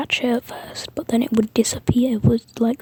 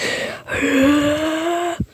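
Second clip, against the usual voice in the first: long, higher-pitched rising noise; imitated exertion noise; 6 semitones higher than usual. Deku finally losing patience with his enemy, long rising imitated noise. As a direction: draw out a rising wordless noise. Imitates Deku's reaction after repeated deaths.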